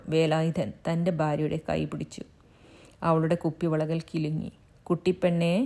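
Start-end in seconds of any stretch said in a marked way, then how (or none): 4.8-5.5 gentle. Acted. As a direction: coax her kindly. Husband gently reassures his wife.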